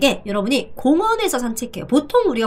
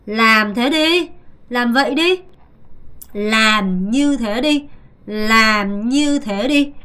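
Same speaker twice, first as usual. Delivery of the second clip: commanding; much slower than usual. Shown as a demonstration. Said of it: "명령을 했어요".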